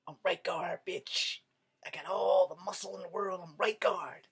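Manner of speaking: a hint of a cocky deodorant; boasting deodorant. Right Guard bragging about its strength, lightly cocky. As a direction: swagger as the product.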